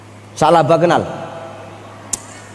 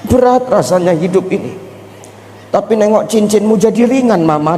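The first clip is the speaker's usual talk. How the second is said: high fake wailing for mama; mock crying husband; 6 semitones higher than usual. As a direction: ham up the husband's sobbing. (tangisan suami yang dibuat-buat)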